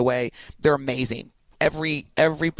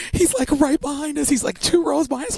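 excited singsong; 11 semitones higher than usual. Real, not acted. Starstruck, singing it excitedly.

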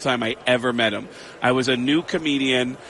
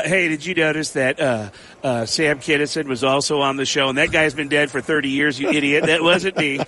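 Tom Arnold impression. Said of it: "Tom Arnold will fight every individual and go".

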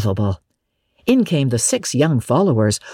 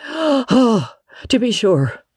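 excited; 9 semitones higher, slower than usual. A narrator's reading. Scrooge gasps seeing old friend.

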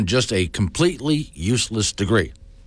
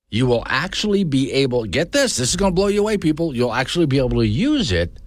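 higher, building hype; mock excited ad pitch; 5 semitones higher than usual. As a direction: oversell it like a cheesy ad.

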